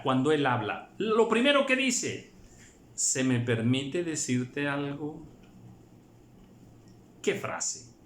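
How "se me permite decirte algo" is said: pausado y suplicante; humilde. Shown as a demonstration. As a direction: pedir permiso con humildad. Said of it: "la reverencia y el respeto". (con humildad y reverencia)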